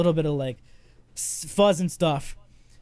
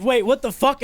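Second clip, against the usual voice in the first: higher incredulous outburst; mock shock; 7 semitones higher, 3 dB louder than usual. Podcaster reacting to shocking news, stunned. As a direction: replay the jolt of disbelief.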